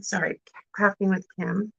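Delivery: talking while chewing gum; words around a wad of gum. Real, not acted. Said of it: "I can't talk and chew gum at the same time".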